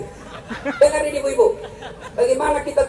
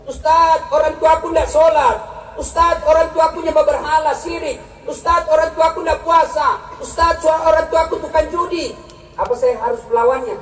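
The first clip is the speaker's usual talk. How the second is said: pleading youth; 5 semitones higher than usual. Retold or imitated. Youth asking ustaz about parents.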